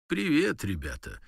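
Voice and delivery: greeting jumps up high, then drops; bright soldier greeting. Retold or imitated. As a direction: hail the lads like an old pal. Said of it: "Я таки їм кажу".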